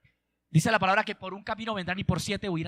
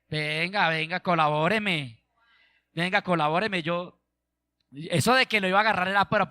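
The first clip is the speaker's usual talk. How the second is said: mock excuses from a humbled king; lightly voiced pleading king. King begging the prophet he threatened, mildly wheedling. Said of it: "dijo al varón de Dios".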